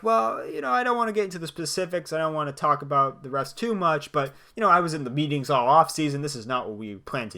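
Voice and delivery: a lightly voiced, whining Sean Payton; whiny Payton impression. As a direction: imitate a sulking coach complaining. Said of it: "he's like".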